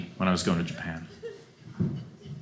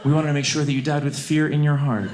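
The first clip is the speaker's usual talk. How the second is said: mock flight attendant; 3 semitones higher than usual. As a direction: gently wake them with fake courtesy. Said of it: "Just be like".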